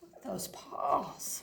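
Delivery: hushed whisper; conspiratorial whisper. Acted. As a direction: breathe it like a secret. Whispered aside to listener.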